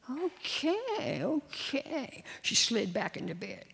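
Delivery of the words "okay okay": put-on high, quick child's surrender; little girl giving in. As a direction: give in fast, high and small.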